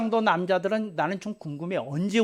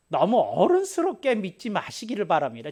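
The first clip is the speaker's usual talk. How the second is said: normal talking voice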